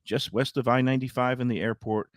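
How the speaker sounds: conversational host-read sponsor spot; easygoing radio pitch. Acted. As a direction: sell the restaurant to listeners in tidy phrases. Reads a restaurant sponsor spot.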